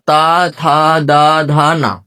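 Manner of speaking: "ता, था, दा, धा, ना" with the tongue at the teeth; dental sounds. Shown as a demonstration. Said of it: "ता वर्ग आपका दांतों के पास".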